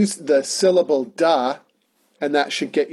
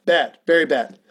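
mock self-scolding. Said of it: "I should have known".

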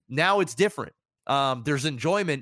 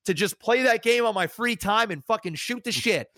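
higher-pitched eager gamer gush; mock excitement; 6 semitones higher than usual. Streamer imitating a gamer keen to play for fun, mock excited. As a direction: put on a can't-wait enthusiasm. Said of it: "I don't get excited because I go".

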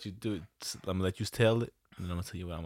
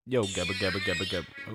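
silly voice. Pretend. Mic check nonsense voice.

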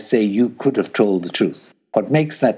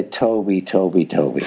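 priestly reproach; 5 semitones lower than usual. Retold or imitated. To Toby after he lied at the interview: low reproachful sigh. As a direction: chide him like a sorrowful priest. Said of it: "In, in that tone".

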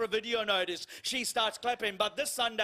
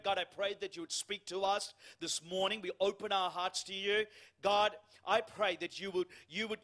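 congregational prayer. Acted. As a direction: lead the church in prayer. Leads the opening prayer.

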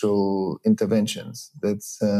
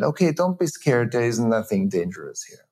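dismissive reassurance. Shown as a demonstration. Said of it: "Either I tell my child".

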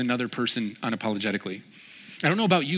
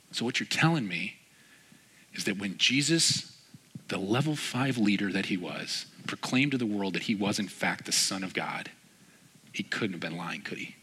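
deliberate retold question, trailing softer; 4 dB quieter than usual. Retold pointed question to Jim.

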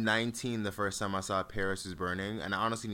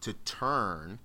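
air quotes voice. Shown as a demonstration. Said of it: "that's my quote unquote voice".

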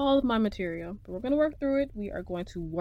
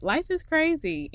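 much higher, louder; exclaimed; 10 semitones higher, 4 dB louder than usual. Real, not acted. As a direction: Life is crazy thrown up high. Exclaims about life.

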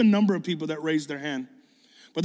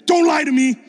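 high, very loud demand; re-enacted incredulous outburst; retold disbelieving shout; 11 semitones higher, 10 dB louder than usual. Acting out his disbelieving outburst.

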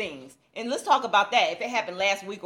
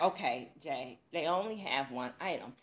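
angel on shoulder; 7 semitones lower, 7 dB quieter than usual. Retold or imitated. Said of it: "the devil and the angel on my shoulder".

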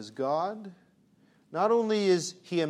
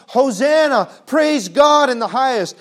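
high, loud joyful cry of Hosanna; crowd shouting praise; 7 semitones higher, 12 dB louder than usual. Retold or imitated. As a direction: call it out like the whole crowd, louder. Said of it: "shouting at top of their lungs".

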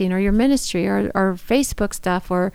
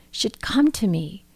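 hushed whisper; 4 dB quieter, slower than usual. Acted. Reading Elizabeth's words from scripture.

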